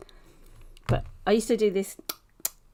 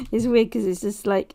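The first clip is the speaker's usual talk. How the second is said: nervous laugh; 3 semitones higher, 6 dB louder than usual. Real, not acted. Giggling about nervous giggle.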